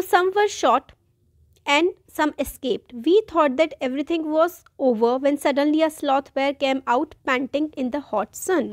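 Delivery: slow, careful textbook reading; reading the text aloud. Acted. Teacher reading the chapter passage to students, slow and careful. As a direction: read each phrase out slowly for the class.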